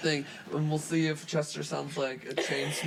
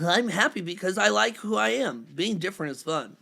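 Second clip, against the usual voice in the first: lightly voiced Chester; 2 semitones higher, 3 dB louder than usual. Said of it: "I'll read responses as voices".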